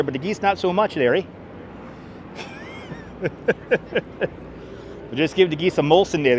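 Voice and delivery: playful Canadian "there, eh" lilt; lightly put-on Canadian accent; mock Canadian accent. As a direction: ham up the Canadian accent a little.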